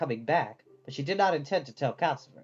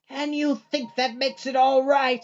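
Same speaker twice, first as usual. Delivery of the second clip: slow, higher, louder indignant growl; 9 semitones higher, 5 dB louder, slower than usual. A narrator's reading. Sophie growling at the shut door after Hal leaves. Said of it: "Sophie growled".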